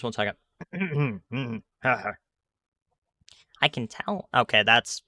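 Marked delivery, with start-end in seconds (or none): 0.6-1.6 clearing the throat before a voice. Real, not acted. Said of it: "terrible old lady voice". 1.8-4.3 put-on very slow, strained old lady voice. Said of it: "This is a terrible old lady voice".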